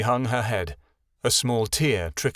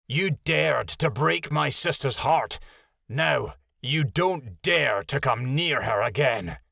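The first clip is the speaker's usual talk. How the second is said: menacing wolf; 3 semitones higher, slower than usual. Acted. Lilja threatening over Echo.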